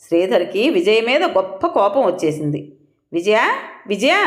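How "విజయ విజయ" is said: calling his wife's name across the house; a husband hollering for his wife. Acted. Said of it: "అరుస్తూ".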